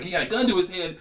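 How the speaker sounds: high-pitched imitation of a freaked-out girl; mock alarm, pitched well up. Retelling the church girl's reaction to the robbery, freaked out and high. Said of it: "She was all freaked out about it".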